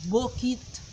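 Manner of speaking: normal talking voice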